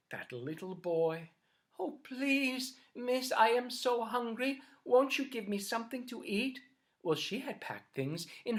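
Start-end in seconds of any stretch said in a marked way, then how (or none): 1.8-6.6 put-on begging boy. Hungry boy begs for food.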